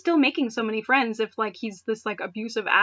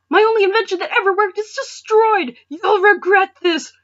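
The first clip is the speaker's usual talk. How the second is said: much higher and louder, slowing into the threat; vengeful wail; 10 semitones higher, 10 dB louder than usual. Acted. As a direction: rage over the broken pieces. Clement vowing revenge.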